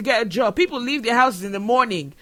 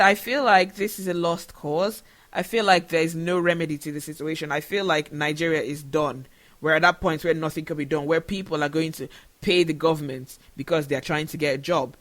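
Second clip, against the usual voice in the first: getting emotional; 4 semitones lower than usual. Real, not acted. Telling viewers she nearly quit, voice sinking with emotion. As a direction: let the hope drain out of each line. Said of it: "I'm sorry I'm getting emotional".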